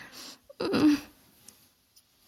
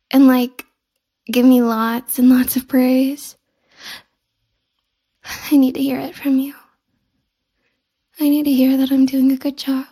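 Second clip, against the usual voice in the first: pleading; 5 dB louder than usual. Acted. Pleading for praise.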